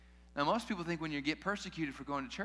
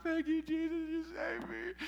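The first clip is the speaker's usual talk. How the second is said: grateful worshipper; 13 semitones higher than usual. Retold or imitated. Mimics newly saved, grateful worshipper.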